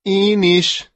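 high chirpy little chick voice; chirping chick. Acted. Chick answering the duckling, chirping high.

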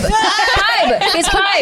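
high mock Filipino accent, counting emphatically; grandma's Filipino accent. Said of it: "She plays Scrabble in her accent".

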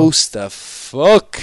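slow, stretched gym war cry; slow mock battle cry; drawn-out catchphrase. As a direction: drag out the catchphrase like a fighter.

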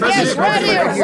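French Trump voice. Acted. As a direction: call on reporters as French Trump. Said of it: "the French Trump Weekly Friday press conference".

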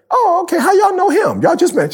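high, prim white lady voice, way up in pitch; high-pitched imitation of a white lady; white woman voice. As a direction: mimic her surprised, doubtful tone. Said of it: "uh, white woman voice".

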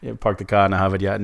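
fast mock Boston accent, dropping the r's. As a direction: rattle off the classic Boston line as a joke.

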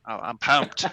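Philadelphia accent, pumped up; Philly accent, broad and excited. Shown as a demonstration. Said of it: "I'm gonna do Philly accent".

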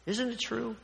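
lightly acted cross-examiner pressing the witness; Perry Mason. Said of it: "in the old Perry Mason show standing there".

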